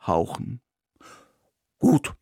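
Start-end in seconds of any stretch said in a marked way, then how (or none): 1.8-2.1 barked word. Acted. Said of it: "kläffte es mir".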